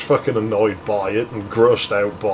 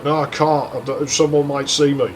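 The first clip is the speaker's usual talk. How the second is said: slightly higher mock whine; retold whining; 3 semitones higher than usual. Girl scared of being seen, mildly whiny refusal. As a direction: imitate a reluctant, whiny refusal. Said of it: "before she starts whining at me".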